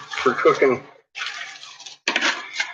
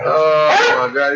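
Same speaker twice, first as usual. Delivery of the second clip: savoring; 4 dB louder, slower than usual. Real, not acted. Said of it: "too delicious".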